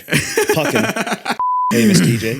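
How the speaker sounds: high, punchy mock hype; playful exaggerated emphasis. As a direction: hype him up jokingly. Mock hype about famous DJ.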